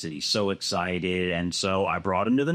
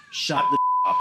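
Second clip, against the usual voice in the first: laughing; 4 dB louder than usual. Real, not acted. Laughing through the punchline.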